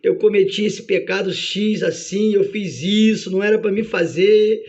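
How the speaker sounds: pleading confession, lightly acted; a touch of sorrowful, chanting prayer; penitent praying. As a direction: plead with God for mercy. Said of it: "a pessoa tá orando e tá dizendo".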